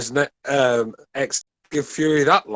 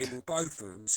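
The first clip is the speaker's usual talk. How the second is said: choppy garbled call audio; breaking up like a robot; robotic bad connection; 14 dB quieter than usual. Real, not acted. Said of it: "You sound like a robot".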